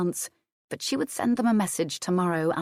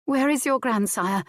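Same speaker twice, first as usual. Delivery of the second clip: urgent question; 7 semitones higher than usual. Acted. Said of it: "Adair replied".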